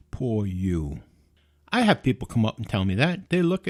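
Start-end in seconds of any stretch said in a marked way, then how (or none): 0.1-1.0 low, subdued mock sympathy; mock pity. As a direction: imitate a pitying onlooker, voice dropped low. Retold pitying onlookers.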